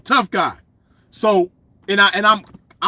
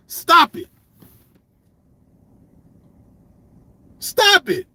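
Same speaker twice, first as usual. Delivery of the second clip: laughing stop it; 9 semitones higher, slower than usual. Acted. Mocking the poser.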